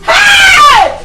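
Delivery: furious yell. Acted. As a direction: explode at her. Mother explodes.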